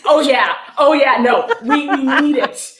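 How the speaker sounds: high, loud, laughing "oh yeah"; laughing agreement. Real, not acted. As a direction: laugh through a sarcastic yes. Ironic agreement about needing citations.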